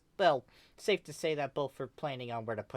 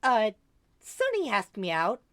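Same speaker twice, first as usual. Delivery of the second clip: excited; 11 semitones higher, 7 dB louder than usual. Acted. Kel excitedly telling news.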